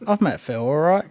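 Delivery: a light mock British accent; English accent. Host warming up his English accent for Phil, lightly done. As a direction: ease into a hint of British. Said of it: "judge me on my English accent".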